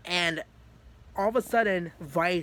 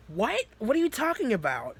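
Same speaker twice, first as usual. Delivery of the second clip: higher-pitched, indignant retold outburst; angry retort; 7 semitones higher, 4 dB louder than usual. Natsuki answering Vice's insult, angrily. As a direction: throw it back indignantly, pitch jumping up. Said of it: "Like, angrily".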